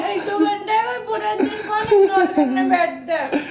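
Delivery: tearful complaint mixed with laughter; crying. Real, not acted. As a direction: protest through tears. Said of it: "क्यों रोने लगी तू".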